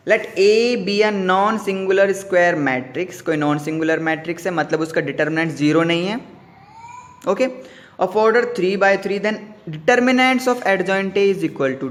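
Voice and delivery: slow, deliberate question read; dictating the question. Acted. Teacher slowly reads the exam question aloud to students. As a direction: spell out each word for the class.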